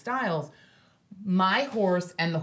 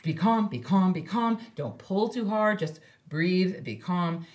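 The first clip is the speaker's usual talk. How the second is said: self-calming; 3 semitones lower than usual. Retold or imitated. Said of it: "So it's just me going".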